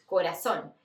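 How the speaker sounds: "corazón" with the z said as Portuguese double s; Z pronounced as S. Shown as a demonstration. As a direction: say "corazón" as co-ra-SSON. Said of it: "lo pronunciamos como si fueran dos S".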